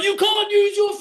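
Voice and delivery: high, loud snapped refusal; mock shouting guard. Security guard forbidding the phone, high mock shout. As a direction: yell the rule back at him. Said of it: "He's like".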